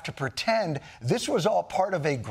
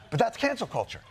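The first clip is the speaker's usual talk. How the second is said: still laughing; 7 semitones higher than usual. Real, not acted. Recovering from laughing.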